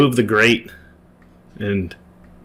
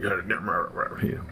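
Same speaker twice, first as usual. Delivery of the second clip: grumbling innkeeper; 10 dB quieter than usual. Retold or imitated. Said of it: "as he grumbles".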